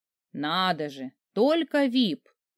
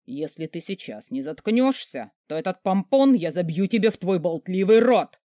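медленный угрожающий рык, под конец громче; рычать угрозу, нарастая; прорычал; 4 dB louder than usual. Acted. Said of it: "прорычал мерзавец". (великан грозит героине, рыча)

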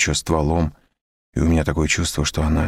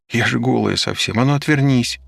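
sharp order; 7 semitones higher than usual. A narrator's reading. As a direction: snap at him to turn away. Olga orders him to turn. (резкий приказ)

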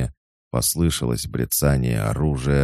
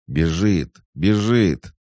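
alarm shout, rising higher and louder; 7 semitones higher, 4 dB louder, slower than usual. A narrator's reading. Sentries spot a rider fleeing, shouting. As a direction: raise the alarm in a high shout. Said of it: "и крикнули".

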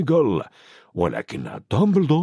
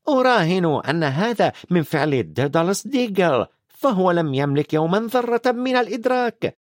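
higher, scornful stern witch; McGonagall scornful; 5 semitones higher than usual. Acted. McGonagall complains about the careless wizards, scornful. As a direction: list the signs with disdain.

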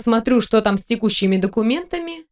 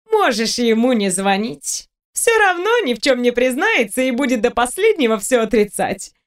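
smirking. Acted. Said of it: "с усмешкой произнесла Кэти".

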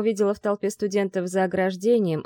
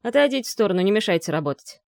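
firm order; 2 semitones higher, 4 dB louder, faster than usual. Acted. Firefighter ordering crowd back.

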